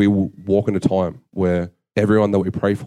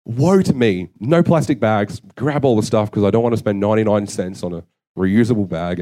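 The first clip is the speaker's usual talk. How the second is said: hammed-up self-pity; 2 semitones higher than usual. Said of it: "I'm just like".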